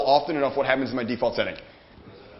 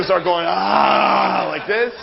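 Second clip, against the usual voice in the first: a long stretched ah that bursts into a shout; celebration yell; 3 semitones higher, 3 dB louder, much slower than usual. Retold or imitated. To the audience, showing how some people celebrate: a whooping yell. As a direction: imitate someone whooping as they celebrate. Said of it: "Some people, too".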